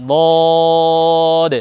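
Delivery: বদ sounded with the tongue side on the back teeth; careful letter demo. Shown as a demonstration. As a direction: model বদ carefully for pupils. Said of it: "সুন্দর করে উচ্চারণ করি". (যত্ন করে বদ উচ্চারণ)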